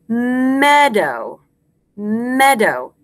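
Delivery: MEADOW with a lingering M at the start; drawn-out first sound. Shown as a demonstration. Teacher shows class the first sound, MEADOW with a long M. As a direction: stretch the opening M of "meadow". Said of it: "very first thing, first sound you hear".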